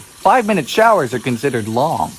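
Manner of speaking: low-pitched presenter narration; explainer narration. Acted. Presents facts about Bermuda.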